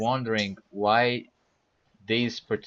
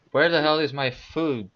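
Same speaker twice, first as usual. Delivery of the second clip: louder, higher, indignant demand; furious; 5 semitones higher, 3 dB louder than usual. Acted. Hungry player demanding the food, furiously. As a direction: demand it with mock fury. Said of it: "I wave my arm around furiously".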